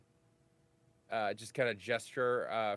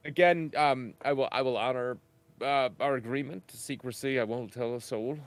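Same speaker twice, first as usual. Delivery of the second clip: a touch louder, earnest character voice; 2 semitones higher, 6 dB louder than usual. Acted. Player character to the bartender, a little louder and earnest. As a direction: promise it firmly, in character.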